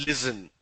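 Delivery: "listen" with a buzzing z, LIZ-en; common mispronunciation. Retold or imitated. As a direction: say "listen" as lizzen. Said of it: "Lot of people pronounce that as".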